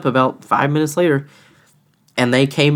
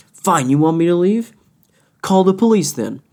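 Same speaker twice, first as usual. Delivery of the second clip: higher-pitched mock challenge; retold dare, pitched up; defiant retort; 5 semitones higher than usual. Customer daring the manager to call police, defiant.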